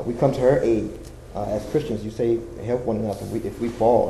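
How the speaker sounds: earnest spoken prayer, rising and falling; fervent prayer. Acted. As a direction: pray aloud for the congregation. Leads the congregation in prayer.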